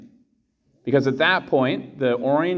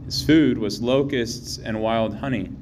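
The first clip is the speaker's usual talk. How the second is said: Gospel reading. Real, not acted.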